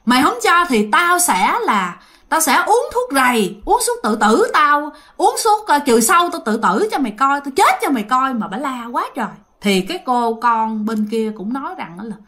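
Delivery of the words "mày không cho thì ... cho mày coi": mother yelling to guilt-trip her daughter; screaming threats. Retold or imitated. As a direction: wail it out as a desperate mother shouting at her daughter. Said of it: "bả mới la làng lên".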